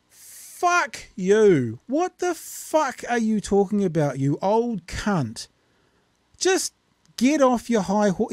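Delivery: mock angry outburst. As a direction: blast him with a pretend tirade. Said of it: "I'd be like".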